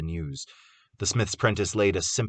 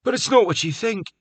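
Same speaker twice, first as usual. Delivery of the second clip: ominous; 5 dB louder than usual. A narrator's reading. Carter's ominous hint.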